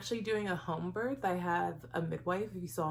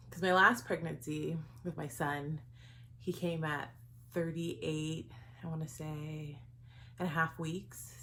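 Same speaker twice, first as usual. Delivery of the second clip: out of breath. Real, not acted. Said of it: "I'm out of breath".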